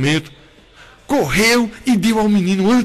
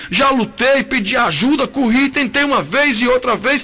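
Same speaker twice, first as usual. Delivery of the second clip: despairing prayer; 5 semitones higher than usual. Retold or imitated. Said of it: "já caiu de joelho e disse ao Senhor".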